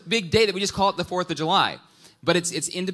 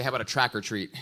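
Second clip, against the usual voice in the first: playful suggestion; 5 semitones lower, faster than usual. Pretend. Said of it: "you say".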